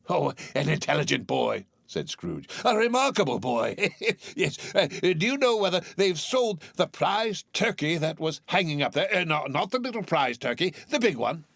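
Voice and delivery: put-on high, chuckling old man; delighted Scrooge. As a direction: praise the boy gleefully.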